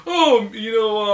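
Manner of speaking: put-on quick half-hearted Borat accent, cut short. Vlogger starts mocking the movie's hero in Borat accent. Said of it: "I don't even wanna do his accent".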